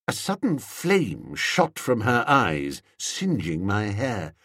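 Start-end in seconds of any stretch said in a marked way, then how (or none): none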